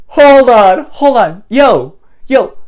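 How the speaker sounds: loud, sharp call to stop; alarmed calling out. Acted. Rescuer stops the man at the riverbank, alarmed shout. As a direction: shout to halt someone about to do something foolish.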